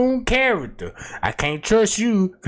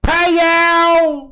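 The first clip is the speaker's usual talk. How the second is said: vintage cartoon voice; 9 semitones higher, 3 dB louder than usual. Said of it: "that's me in my cartoon character voice".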